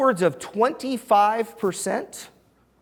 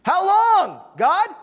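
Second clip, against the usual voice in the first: lamenting cry; 12 semitones higher, 4 dB louder, slower than usual. Acted. Pastor voices lament cry.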